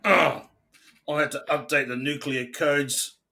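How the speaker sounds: high loud mock whine; mock Trump excuse. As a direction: whine it like a caught-out president. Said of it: "he grabbed Twitter".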